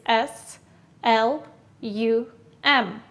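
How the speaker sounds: slow letter-by-letter spelling; careful dictation pace. Shown as a demonstration. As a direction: spell each letter apart. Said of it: "how do you spell it?".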